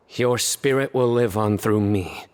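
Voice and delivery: slow, grave as if at a deathbed; mock solemn farewell. Joking to Tighnari as if he were dying, mock solemn. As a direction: play it like last words, tongue in cheek. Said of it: "don't talk like that".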